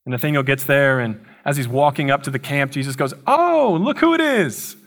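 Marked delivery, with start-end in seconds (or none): 3.3-4.8 high, bright "oh, look who it is" sung out; mock surprised greeting. Jesus teasingly greeting Nathanael as he arrives, high surprised voice. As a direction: greet him like a delighted old friend.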